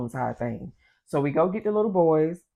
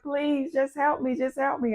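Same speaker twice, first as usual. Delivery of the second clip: high, small pleading voice; mild high-pitched plea; imitated begging; 9 semitones higher than usual. Neighbor begging for help, retold.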